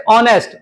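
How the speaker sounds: ऑनेस्ट said with a silent h, starting on the vowel ओ; ऑनेस्ट spoken vowel-first, no h sound; pronunciation of honest. Shown as a demonstration. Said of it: "और pronunciation कैसे?". (ऑनेस्ट का उच्चारण ओ से, एच silent)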